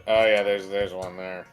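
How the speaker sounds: ordinary talk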